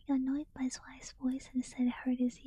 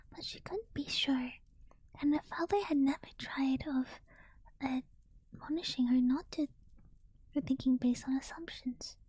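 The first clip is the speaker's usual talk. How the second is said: story narration. A narrator's reading. Reads novel aloud.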